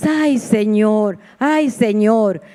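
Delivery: slow, drawn-out sigh of a plea; desperate plea. Retold or imitated. A mother praying over her sick daughter, slow desperate plea. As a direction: stretch out the ay like a worn-out cry to God. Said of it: "lo único que yo le decía era".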